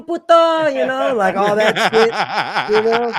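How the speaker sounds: high, loud, slow jeering in a put-on Mexican accent; mock Mexican-accent taunt. Mexican workers taunting the framers in the lobby, loud mock Mexican accent. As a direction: taunt them like a hammed-up Mexican guy. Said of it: "are like".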